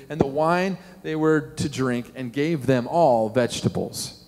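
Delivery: measured Bible reading aloud; formal, evenly paced reading; scripture reading. Acted. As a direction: read the passage out deliberately.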